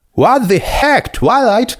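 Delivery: high voiced character yell; lightly voiced shouting Applejack. A narrator's reading. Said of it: "Applejack shouted".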